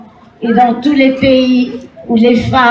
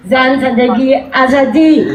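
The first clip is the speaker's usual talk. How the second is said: Persian slogan in a Parisian French accent. Real, not acted. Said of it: "malgré mon accent parisien".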